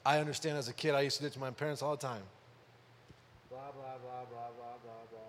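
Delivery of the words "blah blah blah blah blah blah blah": mocking blah blah. Kid tuning out parents.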